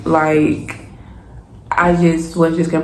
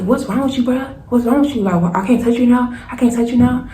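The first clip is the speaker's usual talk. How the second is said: higher-pitched imitation of an affronted man; indignant complaint; 6 semitones higher than usual. Boyfriend rebuffed on the couch, imitated as indignant. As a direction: protest in a mimicked whine of disbelief.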